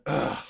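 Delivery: short disgusted grunt, imitated; mimicked weary groan; imitated Belichick groan. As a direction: let out a brief "ugh". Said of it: "Belichick lets out a".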